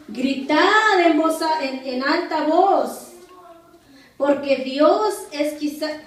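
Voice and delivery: slow, drawn-out mocking call. Elijah mocking Baal's prophets at midday, mocking. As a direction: taunt them with stretched-out words. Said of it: "Elías se burlaba de ellos, diciendo".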